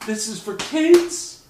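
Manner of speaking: slow, loud, high incredulous question; loud, slow, disbelieving exclamation; stunned disbelief. Retold or imitated. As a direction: drag it out in shock. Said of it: "And I'm just like".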